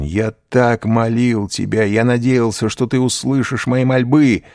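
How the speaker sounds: loud, high, desperate pleading to God; slow loud cries of a prisoner; anguished prayer. A narrator's reading. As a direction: beg heaven, rising in despair. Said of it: "вскричал он".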